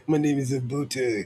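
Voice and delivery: hint of an African accent, mock. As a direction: repeat the name in put-on African accent. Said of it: "little African voice".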